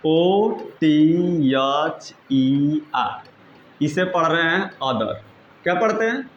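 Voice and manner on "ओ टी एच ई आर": spelling out letters. Shown as a demonstration. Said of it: "अगला है".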